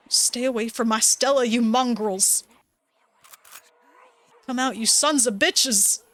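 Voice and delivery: mild mock yell of an old rancher; angry Duke voice. Duke yelling at the creatures in the tree line, mild mock anger. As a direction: threaten the creatures, half-hearted hammed-up fury. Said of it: "I'm making this silly voice".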